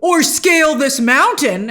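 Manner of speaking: a hint of a scheming Saul; mock Saul voice. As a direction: play him as smugly pondering. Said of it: "He's like".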